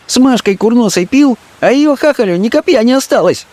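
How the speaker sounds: put-on a street girl teasing him as a scoundrel; Fenka scolding. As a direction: drag out the scolding, high. Fenka's voice held.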